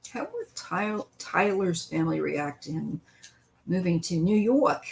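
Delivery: a light, hammed-up New York accent; a mild mock New Yorker asking the question. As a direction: toss off a basic Queens twang. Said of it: "horrible mimicry of a basic New York accent".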